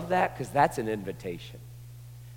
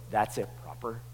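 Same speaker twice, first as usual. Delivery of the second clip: prim hush; 6 dB quieter than usual. Acted. Crowd hushing the blind men.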